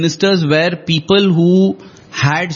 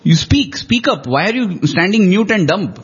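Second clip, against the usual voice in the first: pleading; 3 semitones higher than usual. Retold or imitated. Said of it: "he actually pleads with them".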